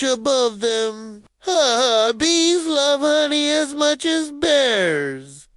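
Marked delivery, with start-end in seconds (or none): 1.4-5.5 bright, slow and eager; excited exclaim. Acted. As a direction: exclaim it with delight. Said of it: "Kiko exclaims".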